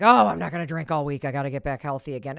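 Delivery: loud "oh", then a fast rattle; quick, imitated self-promise; mock resolution. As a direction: rattle off a morning-after vow. Mimicking resolutions after a bender.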